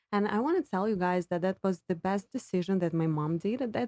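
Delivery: usual speaking voice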